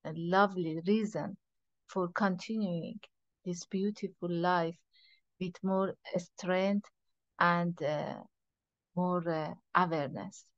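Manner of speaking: guided meditation. Real, not acted. Teacher leading a group into meditation, soft guiding voice. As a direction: ease them inward, quietly and unhurriedly.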